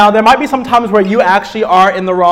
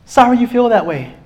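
wrong version, dismissive; 5 semitones higher than usual. Shown as a demonstration.

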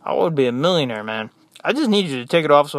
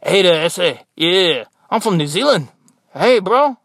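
put-on louder, joking Mexican-accent greeting; 2 semitones higher, 5 dB louder than usual. Nurse confusing patients about his origins, mock Mexican accent. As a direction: play a Mexican guy claiming to be a Kiwi. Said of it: "there's no Mexicans in New Zealand".

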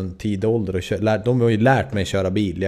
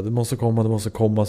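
mock panic. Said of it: "så här i panik".

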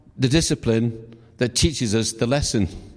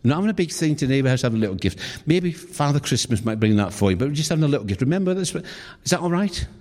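a touch of a patient mum explaining; soothing mother. Retold or imitated. Mother kneeling to calm her daughter, mildly soothing. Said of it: "talks to her and said".

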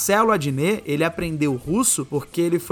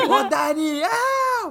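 calling out; 9 semitones higher, much slower than usual. Retold or imitated. Calling out like the aunt.

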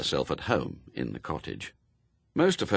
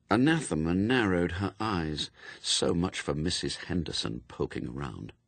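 plain reading voice

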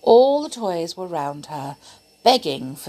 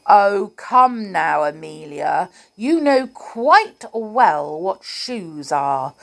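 crossly; 4 dB louder than usual. Acted. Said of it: "said the clown crossly".

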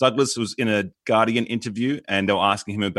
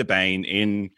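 Bane voice; 4 semitones lower, slower than usual. Shown as a demonstration. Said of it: "I was doing a".

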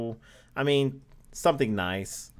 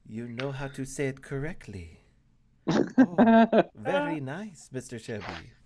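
lightly put-on Italian waiter accent; a hint of Italian waiter, praising the guest. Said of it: "That was Italian".

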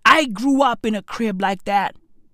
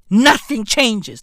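each word slowed and weighted; slow heavy refrain; slow, deliberate; slower than usual. Acted. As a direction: drag it out for emphasis.

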